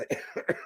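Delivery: quiet breathy cough; real cough. Real, not acted. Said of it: "Excuse me".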